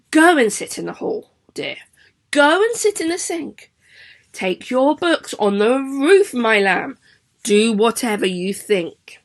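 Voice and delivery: a light, dismissive teacher's voice; breezy teacher. Shown as a demonstration. Teacher demonstrating the poem for pupils: airy, dismissive teacher. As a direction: brush the child off kindly. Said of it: "So, I'm gonna do it for you".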